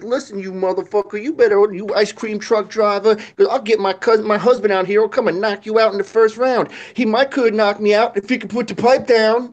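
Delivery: high, loud scolding woman's voice; mock furious neighbor lady; angry lady from skit. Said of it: "the lady's like".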